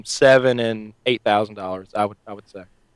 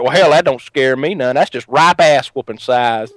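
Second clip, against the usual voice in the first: put-on redneck accent, drawn out at the end; Roy D. Mercer; slower than usual. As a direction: imitate a cocky redneck prank caller. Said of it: "redneck accent".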